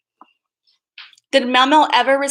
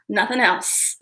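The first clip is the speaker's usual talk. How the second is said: whispered aside; 5 semitones lower, slower than usual. Real, not acted. Vlogger asks chat only for thumbs up, whispering. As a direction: drop to a breathy whisper for the punchline.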